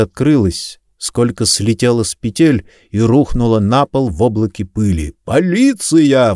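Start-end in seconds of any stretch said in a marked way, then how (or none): 5.2-6.3 raised, high-pitched roar, drawn out; roaring shout. A narrator's reading. Detective bursting into the room announcing police, roaring shout. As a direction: bellow it as a police warning. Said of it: "взревел Кэт".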